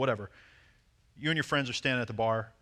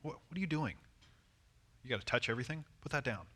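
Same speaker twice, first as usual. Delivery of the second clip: teasing; 3 semitones higher, 5 dB quieter than usual. Retold or imitated. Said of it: "he always messes with them".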